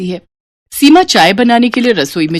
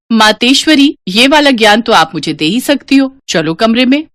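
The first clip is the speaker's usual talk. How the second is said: higher, playful mock-formal address; teasing daughter; 4 semitones higher than usual. Daughter grandly teasing mother, higher playful voice. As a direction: tease her grandly.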